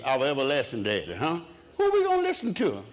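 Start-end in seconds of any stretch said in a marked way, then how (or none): 1.8-2.8 high preaching call. Acted. Preacher calling out to congregation.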